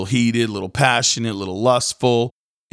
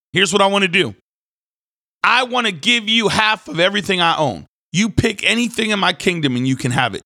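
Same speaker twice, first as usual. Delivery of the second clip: grand royal offer; 9 semitones higher than usual. Retold or imitated. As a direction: proclaim it like a reckless king showing off. Herod grandly offers the dancer.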